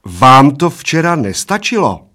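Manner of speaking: sharp reproach from the waitress; warning waitress. A narrator's reading. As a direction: warn them off sternly. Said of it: "varovala oba slovy".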